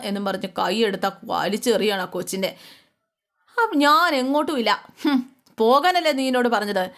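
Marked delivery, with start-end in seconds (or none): 3.6-6.9 put-on higher, half-hearted scolding of a child; a grandmother snapping at the girl to get out; retold angry outburst. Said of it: "നമ്മുടെ പ്രഭാവതി ഒച്ച എടുക്കുക".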